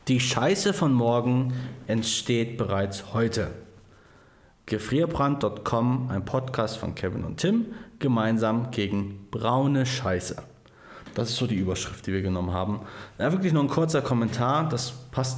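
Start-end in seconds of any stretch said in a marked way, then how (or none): 0.1-10.4 slow, deliberate read-out; reading aloud. Acted. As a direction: read it like a formal announcement. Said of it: "ich lese es euch gerne mal vor".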